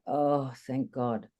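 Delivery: relieved sigh. Retold or imitated. Relief at settling into session.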